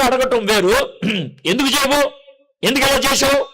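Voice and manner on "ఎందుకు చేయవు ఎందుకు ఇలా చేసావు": higher accusing demand; arguing tone. Shown as a demonstration. Preacher showing how arguing with God sounds, accusing. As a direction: confront God with a reproachful edge. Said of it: "ఇది వాదించడం".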